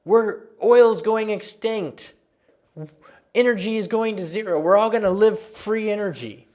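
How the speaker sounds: mock doom-laden outcry; mock panic. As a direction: imitate the panicking crowd, mildly overwrought. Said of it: "Everyone's panicking".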